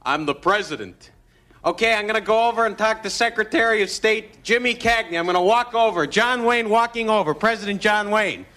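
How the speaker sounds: a hint of John Wayne swagger; John Wayne impression. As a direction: play the Duke as president.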